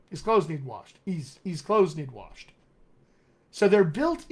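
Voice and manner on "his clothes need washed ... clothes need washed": "clothes need washed" run together; "need washed" with no gap; connected Pittsburgh reduction. Shown as a demonstration. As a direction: drop the h of "His" to "iz". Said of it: "fluency strategy that comes right out of Pittsburgh".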